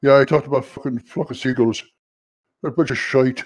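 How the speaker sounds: mumbled Irish accent; real Irish accent. Shown as a demonstration. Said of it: "do a real Irish accent".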